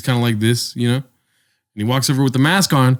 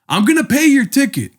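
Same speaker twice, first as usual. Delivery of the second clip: imitating attendant; 13 semitones higher than usual. Retold attendant's sudden offer.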